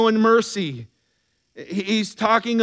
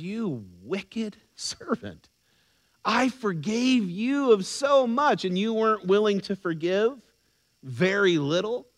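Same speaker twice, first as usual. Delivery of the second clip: stern rebuke; 5 dB quieter than usual. Acted. Master rebuking the wicked servant.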